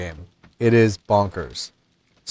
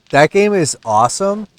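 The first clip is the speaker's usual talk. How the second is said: excited; 5 semitones higher, 4 dB louder than usual. Real, not acted. Enthusing about a game.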